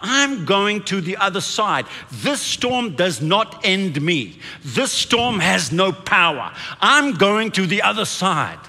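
emphatic, deliberate proclamation; bold declaration. Shown as a demonstration. Preacher showing the church what to say out loud, bold declaration. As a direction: declare each sentence firmly, word by word. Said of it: "start saying a few things out loud".

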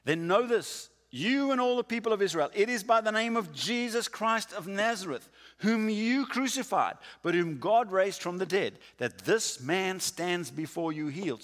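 high, loud and ringing declaration; bold proclamation. Retold or imitated. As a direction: proclaim it boldly to the council. Peter's bold answer to council.

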